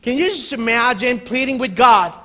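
loud, high, urgent preacher; impassioned preaching. Real, not acted. Preacher asking the congregation to picture Paul pleading, impassioned. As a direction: preach it with rising fervour.

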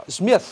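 "Smith" ending tongue-tip between the teeth. Shown as a demonstration. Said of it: "É T H".

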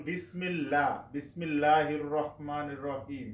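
বিসমিল্লাহ with a thin L and open "laa"; light L. Shown as a demonstration. Teacher repeats the example for learners, light L. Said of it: "লা উচ্চারণ করেছি".

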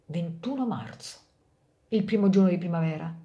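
lively storyteller voice for a fable; story narration. A narrator's reading. Narrator telling a fable to parents, storytelling. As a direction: read it like a bedtime tale for grown-ups. Reads Rodari fable aloud.

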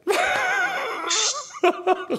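high burst of laughter. Real, not acted. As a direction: crack up laughing. Laughs at his own slip.

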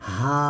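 হা drawn out from low in throat; open-mouthed demo. Shown as a demonstration. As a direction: open up on a long হা. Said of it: "হাটা মুখ খুলে". (মুখ খুলে হা)

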